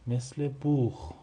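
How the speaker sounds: بوخ with a throaty kh, drawn out; German Buch said slowly. Shown as a demonstration. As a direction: model بوخ as buukh, guttural ending. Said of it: "مثل چی؟".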